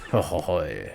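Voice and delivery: low "ho-ho" character laugh; French-style chuckle. Acted. Old cook pleased with his delicious food, French-style chuckle. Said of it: "that kind of laugh style".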